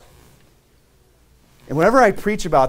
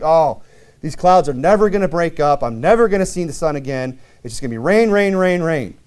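mock whining; 3 semitones higher, 4 dB louder than usual. Mock complaint about rain.

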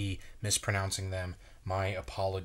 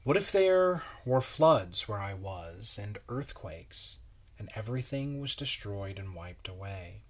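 storybook reading; 2 semitones higher than usual. Acted. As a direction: read it like a bedtime story, wondering aloud. Reads the picture book aloud.

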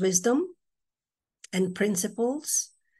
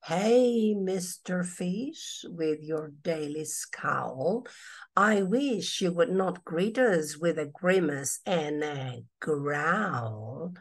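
gentle jellyfish; 2 semitones lower, slower than usual. Acted. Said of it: "the jellyfish".

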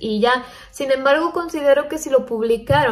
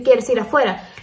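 plain falling parrot echo of "¿Quieres ir afuera?"; parrot repeating. Shown as a demonstration. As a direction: repeat it back flatly like a parrot. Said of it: "aprenda a repetir". (el perico repitiendo sin entonación)

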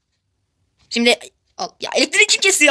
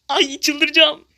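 drawn-out exasperation; 4 semitones higher, much slower than usual. Real, not acted. Can't vote again.

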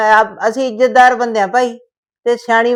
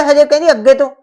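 angry scolding; 2 semitones higher than usual. Acted. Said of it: "ਗੁੱਸਾ ਆਇਆ".

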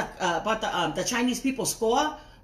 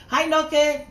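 calling out a name; 7 semitones higher, 7 dB louder than usual. Real, not acted. Greeting brother on live.

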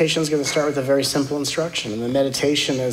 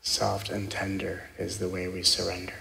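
guided meditation; 3 semitones lower, 6 dB quieter than usual. Acted. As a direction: guide them gently into stillness.

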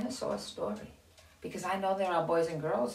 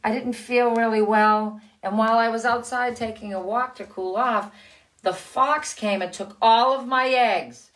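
hen telling her tale; 4 semitones higher, 6 dB louder than usual. Acted. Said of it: "said the hen".

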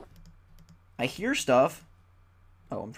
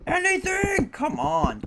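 Anything! squealed very high and louder; squeaky plea; 5 dB louder, slower than usual. Acted. Gamer begging the game for a cavern, squeaky and high.

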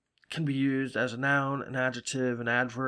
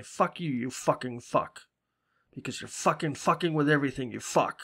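Massachusetts swearing. Retold or imitated. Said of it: "We have no problem to say".

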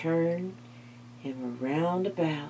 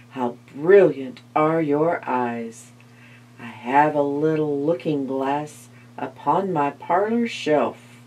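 cunning spider; 3 dB louder than usual. Acted. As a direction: flatter her, sweet and sly. Spider flatters.

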